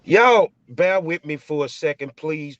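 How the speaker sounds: loud, slowed call to the crowd. Real, not acted. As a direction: call out to everyone to wait. Host calls out to audience.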